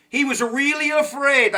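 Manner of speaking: high, lightly put-on Italian accent. History host on Washington's fears, playful Italian accent. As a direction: slip into a hint of an Italian accent. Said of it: "I don't know why I have Italian accent".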